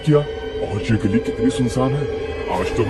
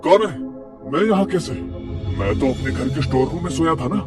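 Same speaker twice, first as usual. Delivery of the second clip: frightened. Acted. Gopal wakes frightened.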